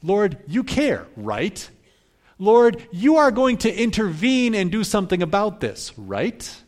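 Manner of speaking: insist, with a pointed tag question; mild acted demand of Martha. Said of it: "That's what Martha's doing".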